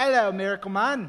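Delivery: very loud put-on English accent. Answering what a British bystander would say: English accent. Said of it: "Ryan should work on his English accent".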